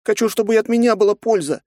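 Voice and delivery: put-on high, pleading young girl; a little girl begging to help; plaintive girl. A narrator's reading. Nastya pleads plaintively with her father.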